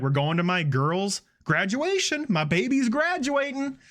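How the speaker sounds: slow mock gushing, rising high at the end; proud mother. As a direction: imitate a gushing mom, drawn out. Acted proud mother going to graduation.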